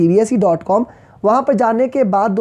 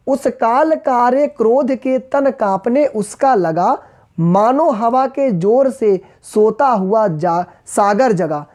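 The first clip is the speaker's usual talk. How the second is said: slow, deliberate verse reading; slow recital in measured phrases; poem recitation; slower than usual. Acted. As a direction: stretch each word of the verse. Rereads the verse.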